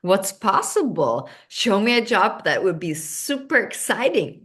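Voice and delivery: asking the universe. Shown as a demonstration. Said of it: "That's how I start talking".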